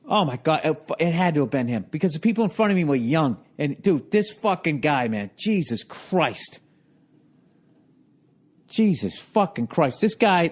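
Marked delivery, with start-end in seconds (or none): 5.1-10.0 low, slow, drawn-out disgust; exasperated groan. Real, not acted. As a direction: drag it out, fed up.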